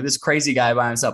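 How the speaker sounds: ordinary talk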